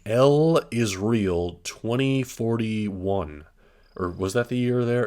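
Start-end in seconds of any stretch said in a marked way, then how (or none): 0.1-3.4 slow reading. Shown as a demonstration. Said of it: "interpreted this as saying".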